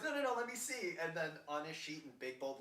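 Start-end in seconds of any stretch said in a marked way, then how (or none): 0.1-0.9 high, louder acted insistence; mock urgent protest. Retelling patient who wants the doctor's sheet, mock urgent protest. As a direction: act out a patient demanding a look.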